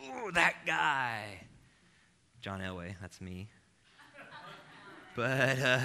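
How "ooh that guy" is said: slow, drawn-out, higher grumble of resentment; a mock-seething mutter about that guy; grudging grumble. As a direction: stretch it out like you're seething at someone. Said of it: "You're like".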